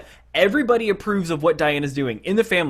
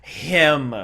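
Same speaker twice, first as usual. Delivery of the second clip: sassy cheer; much slower than usual. Retold or imitated. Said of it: "my inner gay man is, you know, going like".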